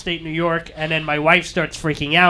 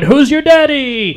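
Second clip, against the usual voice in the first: parrot voice; 7 semitones higher, 7 dB louder, slower than usual. Retold or imitated. Parrot mimicking bedroom phrase.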